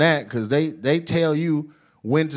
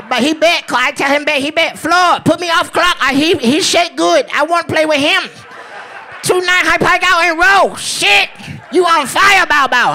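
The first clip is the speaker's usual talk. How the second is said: very high, excited mock Asian dealer accent; hammed-up Asian dealer, squealed high; happy Asian dealer; 12 semitones higher, 4 dB louder than usual. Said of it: "be so happy when you win".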